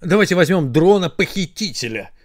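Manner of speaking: eager suggestion, lightly called out; mild excited cry. Acted. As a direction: pitch in your wish eagerly. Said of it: "закричали глаза". (с азартом, негромкий выкрик)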